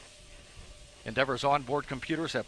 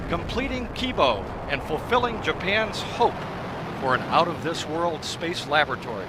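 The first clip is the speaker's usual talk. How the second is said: excited; 2 semitones higher, 5 dB louder than usual. Real, not acted. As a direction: build up to a big liftoff shout. Shuttle liftoff call.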